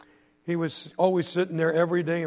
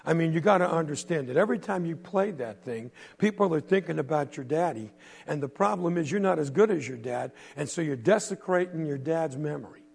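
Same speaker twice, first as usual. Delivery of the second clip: fake nice. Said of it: "pretended he was real nice".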